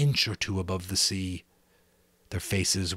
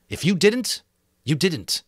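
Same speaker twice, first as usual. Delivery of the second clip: put-on louder, raised boy voice; Ralph voice; 10 semitones higher, 7 dB louder than usual. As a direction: voice Ralph, firm.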